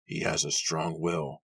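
put-on slow old man's growl; approving growl. A narrator's reading. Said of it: "Benjamin growled approvingly".

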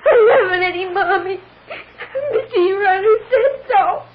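put-on child crying. Little girl tells her mother she has no mommy, sobbing. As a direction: sob it out like a hurt child.

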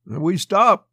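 high, punched sarcastic grunt. A narrator's reading. Rigdon answers the officers at the bridge, sarcastic. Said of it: "grunted sarcastically".

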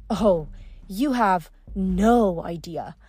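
bitter, haughty sorceress; resentful queen. Acted. Pasiphae bitter complaint.

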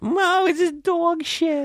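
put-on very high, slow child voice; kid voice. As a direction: squeak it out like a little kid. Voicing a kid.

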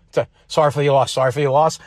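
the hushed polite mourner; condolence. Retold or imitated. Shaking hands in the funeral line, mock solemn condolence. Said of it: "you shake someone's hand and you go".

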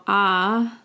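ah like that's a pity; sympathetic ah. Shown as a demonstration. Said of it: "that's too bad".

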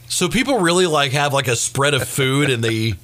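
puzzled kid questioning dad, lightly imitated; daughter's voice. Daughter asks dad about party food, lightly imitated puzzlement. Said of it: "So my daughter goes".

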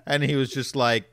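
normal talking voice

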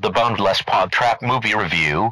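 announcer voice. Acted. Mock broadcast disclaimer intro.

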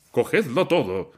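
loud, high, voice cracking with rage; furious anguished cry; shouted in anguish. A narrator's reading. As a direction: hurl it out, beside himself. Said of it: "gritó con voz alterada".

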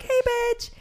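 high, loud teasing insult; mock rude greeting. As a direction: toss it out cheekily.

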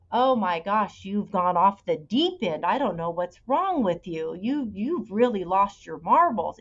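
retelling dad's insults with mild mock anger; mock name-calling. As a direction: imitate dad ranting at her, a bit heavier. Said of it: "name calling".

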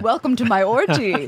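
put-on English accent; lightly hammed English-accented hostess. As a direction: welcome guests in a mock English accent. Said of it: "you did an English accent".

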